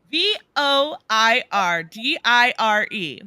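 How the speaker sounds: letter by letter, slow; spelled out slowly. Shown as a demonstration. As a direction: spell each letter out deliberately. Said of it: "That is the Latin expression".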